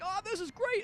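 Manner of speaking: high, chirpy mock delight; mock carefree. Describing a viewer before the movie hits home, mock cheerful. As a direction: play the naive happy viewer.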